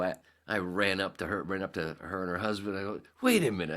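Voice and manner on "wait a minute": loud, higher call to stop; urgent interruption. Retold or imitated. Running up to friend and her husband, urgent call. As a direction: cut in loudly, pitched up.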